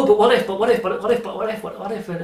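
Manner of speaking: breathless string of what-ifs, fading away; mock overblown worrying. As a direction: fret in a hammed-up spiral. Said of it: "we tend to blow things out of proportion".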